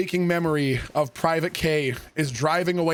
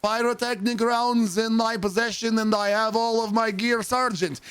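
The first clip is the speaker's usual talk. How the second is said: slow, higher, drawn-out recruit voice; slow recruit recital; 4 semitones higher, slower than usual. Retold or imitated. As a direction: stretch each word like a dim recruit. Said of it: "And he goes".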